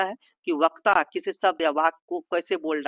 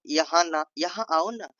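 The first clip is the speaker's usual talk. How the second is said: gently coaxing invitation; sweet, pleading request; loving. Shown as a demonstration. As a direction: coax them over affectionately. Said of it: "प्रेम से इसको बोलते हैं".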